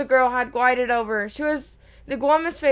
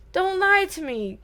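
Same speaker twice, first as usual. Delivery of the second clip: gasped; 7 semitones higher than usual. A narrator's reading. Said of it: "Myrtle gasped".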